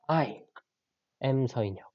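"I" set apart by a pause before "am 서인혁"; stress on I. Shown as a demonstration. Teacher repeating the emphasized subject, stress on I. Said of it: "When I emphasize I".

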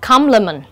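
compliment with weight on COM; first-syllable stress. Shown as a demonstration. Teacher models word stress, compliment stressed at the front. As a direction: hit COM in compliment, let the rest fall. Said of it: "nhấn âm đầu".

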